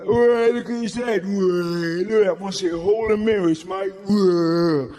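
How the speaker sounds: jeering shout. Retold or imitated. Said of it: "start shouting and laughing at this kid".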